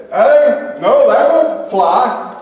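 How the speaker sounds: high, loud mock children's protest; kids hollering back. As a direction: shout back like bossy little kids. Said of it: "she's hollering at them and they're saying".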